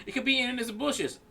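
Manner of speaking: laughing while quoting; giggling through the words. Retold or imitated.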